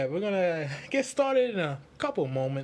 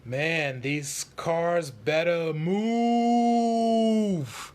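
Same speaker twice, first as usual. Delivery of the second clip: mooing cow voice; 3 dB louder, much slower than usual. Acted. The speaker voicing a stuck cow for his joke, slow and mooing. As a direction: stretch the words out slow like a lowing cow.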